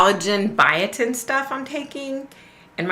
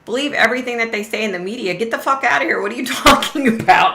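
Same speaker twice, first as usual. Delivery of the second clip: quick, incredulous inner comeback; incredulous retort; 3 semitones higher, faster than usual. Retold or imitated. Shopper silently answers the ranting customer, incredulous. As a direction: rattle it back in disbelief. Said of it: "And I'm thinking".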